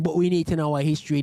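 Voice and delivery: fast sarcastic repeat of "we need to know our history"; mocking echo. Mocking the woman in the video by repeating her line. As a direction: throw her words back mockingly. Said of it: "Oh, but do we wanna talk about slavery".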